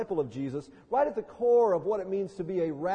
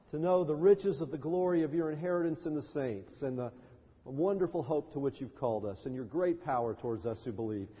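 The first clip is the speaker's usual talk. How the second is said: measured spoken prayer, settling lower; public prayer; 3 semitones lower than usual. Real, not acted. Pastor prays to God for the congregation, public prayer. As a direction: lead the congregation in earnest prayer.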